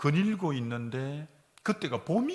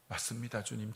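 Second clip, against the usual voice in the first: soft, low humble yes; bow to it softly; quiet surrender; 6 semitones lower, 10 dB quieter than usual. Retold or imitated. Pastor answers God's voice in a soft, humble yes.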